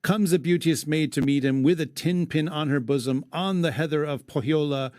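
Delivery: measured verse reading; poem recitation. Acted. Host reading the epic to his cohost, recited verse. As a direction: read it aloud like old poetry.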